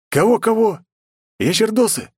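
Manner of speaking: very high-pitched disbelief; baffled double-take, pitch shooting way up; incredulous questioning. A narrator's reading. Hero startled by system's odd word.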